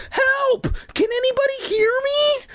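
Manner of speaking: high strained call for help; weak trapped cry for help. Acted. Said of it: "A little louder".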